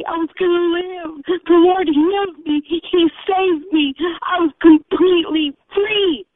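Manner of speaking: choked up, remembering being healed; a real catch of crying in the voice; tearful. Real, not acted. Cry heard on these lines.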